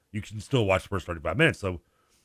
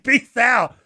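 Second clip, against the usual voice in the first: high and loud, flung over the shoulder; hammed-up goodbye; 13 semitones higher, 8 dB louder than usual. Kid running out on his mom, high loud goodbye. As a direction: shout a cheeky farewell. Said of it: "it's like".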